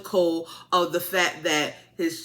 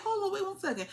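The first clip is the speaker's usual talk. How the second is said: high, disbelieving mock rant at the crowd; imitating yourself calling out the crowd in disbelief; incredulous; 7 semitones higher than usual. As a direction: rise higher and higher as you question them. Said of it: "I'm like".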